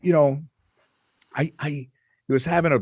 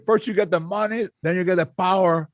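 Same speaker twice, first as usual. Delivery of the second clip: a touch of a Scarface gangster voice, pitched up; lightly voiced Cuban mobster; mock Tony Montana quoting his line; 5 semitones higher than usual. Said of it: "Tony Montana said".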